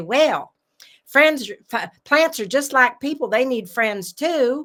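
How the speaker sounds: put-on strong Kentucky accent. Retelling what her grandmother told her as a little girl, in a Kentucky accent. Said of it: "in her very Kentucky accent".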